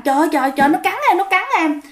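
grandma telling neighbour she was bitten, frightened; frightened cry. Retold or imitated. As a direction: blurt it out in fright. Grandma just bitten by ghost.

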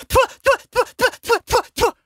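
high squeaky tfu tfu spitting; very high disgusted spitting. Acted. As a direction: spit it out again and again, revolted. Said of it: "заплевалась она".

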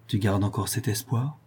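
un peu plus doux, las et désabusé. Acted. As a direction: pose la question sans y croire. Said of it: "d'un ton désabusé". (Angèle, désabusée, à Jeanne)

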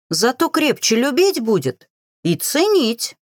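satisfied drawl. A narrator's reading. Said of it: "довольно протянула я".

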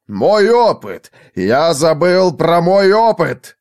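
loud, high, drawn-out exclamation; alarmed cry. A narrator's reading. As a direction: cry out at a sudden recollection. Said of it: "вскричал Формайл".

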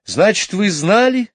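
high, loud startled question; mother caught off guard; high surprised mother. A narrator's reading. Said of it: "удивилась мама".

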